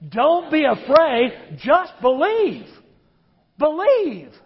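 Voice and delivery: congregation told to say it like they mean it, emphatic; with conviction. Shown as a demonstration. Say it slowly, like you mean it. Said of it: "Say it like you mean it".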